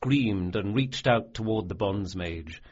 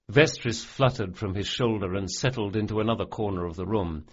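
plain reading voice

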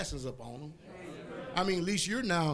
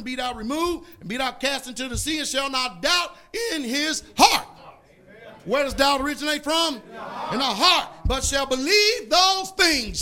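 loud, higher, slowed King James reading; scripture preaching; 6 semitones higher, 5 dB louder than usual. Acted. Preacher reading Mark to the congregation at full force. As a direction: proclaim the verse like thunder.

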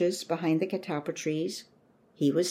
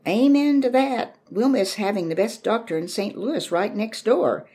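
much higher and louder, a heartfelt neighbour woman; fervent farewell; 6 semitones higher, 6 dB louder than usual. A narrator's reading. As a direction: cry out your agreement with feeling.

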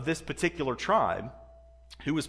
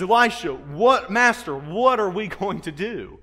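loud, raised-pitch plea of a panicked servant; acted alarm; 5 semitones higher, 8 dB louder, slower than usual. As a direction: call out to the master in mock panic. Frightened servant in retold Bible story.

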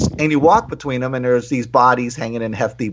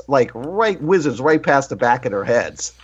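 ordinary talk

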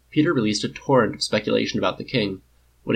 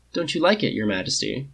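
cheeky; 5 semitones higher than usual. Acted. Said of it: "Tony asked cheekily".

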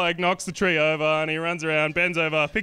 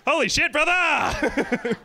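mock amazed; 11 semitones higher, 3 dB louder, much slower than usual. Reacting as bro to video.

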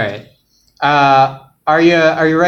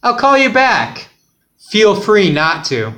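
higher first voice; 4 semitones higher than usual. Acted. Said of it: "Say it again".

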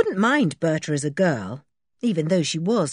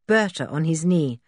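plain reading voice

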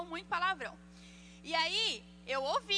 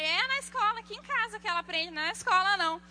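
higher, louder mock retort; indignant mother; 5 semitones higher, 5 dB louder than usual. Mother correcting father about the swearing, mock indignant. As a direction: imitate a mother firmly contradicting.

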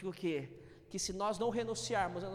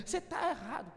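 accusing Christian; 4 semitones higher than usual. Retold or imitated. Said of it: "fala pra você assim".

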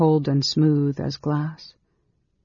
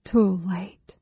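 higher-voiced, restrained despair; a forlorn inner lament; 5 semitones higher than usual. Girl realizing she is shut out, despairing. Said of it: "she thought in despair".

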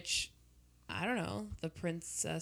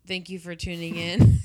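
loud burst into laughter; shouted sign-off; 9 dB louder than usual. Real, not acted. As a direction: yell the thanks, then laugh.

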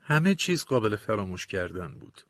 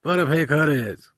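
slow, gruff, mildly raised brush-off; angry shout; 3 semitones higher, 4 dB louder than usual. Acted. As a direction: snap at him to get lost, half-voiced. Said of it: "سرم داد زد".

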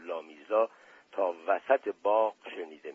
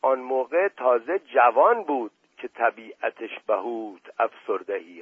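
a touch of laughter through the mock quote; chuckling while he mocks; laughing retelling; 4 dB louder than usual. Prince laughing as he retells the joke, lightly amused. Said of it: "قهقههٔ خنده را سر داد".

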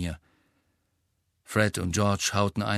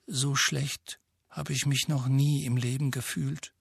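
dull voice; 4 semitones higher than usual. Acted. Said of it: "mit dumpfer Stimme".

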